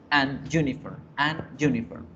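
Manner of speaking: "an uniform" with a small break after "an"; broken fluency. Shown as a demonstration. Teacher showing why the article is wrong, choppy "an uniform". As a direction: cut the flow between "an" and "uniform". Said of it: "se corta ahí como un momentico la fluidez".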